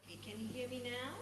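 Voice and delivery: very faint, far-off voice; faint voice on a weak connection; barely audible. Real, not acted. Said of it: "It's getting better".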